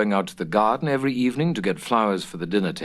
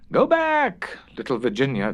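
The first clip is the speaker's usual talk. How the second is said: crying out; 4 semitones higher than usual. A narrator's reading. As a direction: call out high and urgent. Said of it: "they cried".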